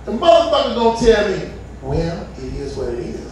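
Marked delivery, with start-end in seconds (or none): 1.8-3.2 much lower, softer shrug; mock dismissive ex; dismissive baby mama. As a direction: toss it off like you don't care.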